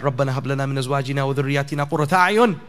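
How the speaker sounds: even, level-toned recital of a supplication; Arabic recitation. Real, not acted. Preacher quoting a Quranic dua, evenly recited. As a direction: recite it steadily on nearly one note.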